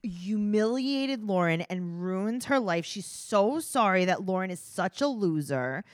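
slow, drawn-out mock sincerity; sarcastic. Host mocks a cast member's fake apology, slow and sarcastic. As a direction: stretch it out, dripping with sarcasm.

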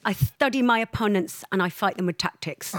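a hint of the boxer's lisping calm; mild Chris Eubank take; Chris Eubank impression. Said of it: "Chris Eubank".

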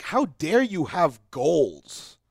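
mock indignant hater. Hater to someone improving, slow mock indignation. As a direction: drag it out like an offended hater. Mocking people who resent goals.

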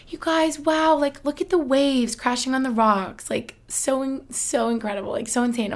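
high, gushing mock wonder; imitating a friend gushing over the waves; imitating awe. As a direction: play her as swept away by the view. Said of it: "She was like".

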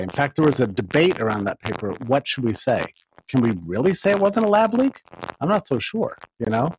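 crackling, distorted microphone; bad USB mic crackle; clipping distorted mic. Real, not acted. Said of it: "your mic is crackling".

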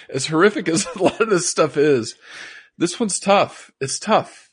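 really choked up, pushing through; crying. Real, not acted. Co-host admits this episode is tough, tearful. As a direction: voice rising through tears. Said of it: "We've never cried on a podcast".

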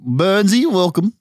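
high, lifted mock host greeting; put-on radio host welcome; talkback radio host. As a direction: welcome a caller in talkback style. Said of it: "In talkback style".

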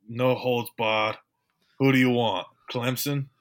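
badly faked Boston accent; half-hearted stab at Boston speech; Dave Gettleman. Co-host retries the GM's answer, badly faked Boston accent. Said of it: "I can't do it".

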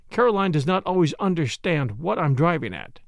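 ordinary delivery, nothing marked

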